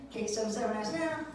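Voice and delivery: plain first take of the jingle line; cheesy ad tagline read flat; mock jingle. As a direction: say the number steady and level. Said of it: "it goes something like this".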